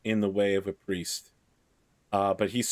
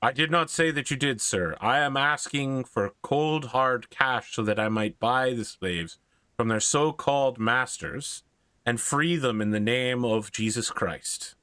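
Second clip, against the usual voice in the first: put-on Irish-accented priest pressing his case. Irish priest asks a lord for cash to buy slaves, Irish accent. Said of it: "in a very Irish accent".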